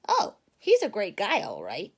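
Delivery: lightly hammed-up Papa Bear. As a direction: say it like a hearty bear dad. Papa Bear defending friend.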